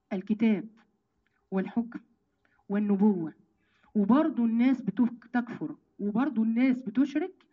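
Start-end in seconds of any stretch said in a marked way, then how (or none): none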